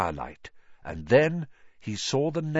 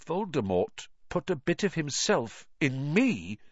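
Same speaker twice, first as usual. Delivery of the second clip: thunderstruck; 7 semitones higher than usual. A narrator's reading.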